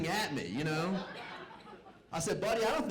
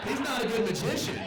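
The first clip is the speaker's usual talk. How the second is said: emphatic; 8 semitones higher, 5 dB louder than usual. Real, not acted. Repeating point louder for emphasis.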